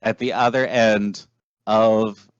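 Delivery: measured storyteller scene setting; game master narration. Acted. Game master describing a devil-infested city to players, storyteller narration.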